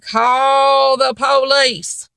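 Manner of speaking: slow, drawn-out shouted challenge; retold shout daring the clerk; defiant dare. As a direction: dare him to do it, slowly.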